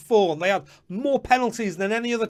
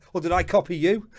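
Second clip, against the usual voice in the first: laughing; 2 semitones lower, 4 dB quieter than usual. Real, not acted. Teasing a league mate.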